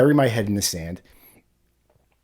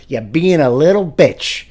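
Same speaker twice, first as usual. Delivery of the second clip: laughing requote; 2 semitones higher, 5 dB louder, slower than usual. Retold or imitated. Laughing, requoting wife's line.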